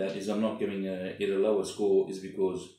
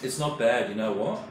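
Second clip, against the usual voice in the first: speaking between bites; talking while chewing. Real, not acted. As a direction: mouth partly full of food. Seen 0: Eats from noodle box throughout, fork at mouth, talks between bites.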